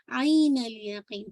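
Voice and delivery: आइन अल यकीन slow, opening on a squeezed ain; mid-throat ain. Shown as a demonstration. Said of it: "middle वसल हलक से आवाज". (आइन अल यकीन में हलक के बीच से आइन)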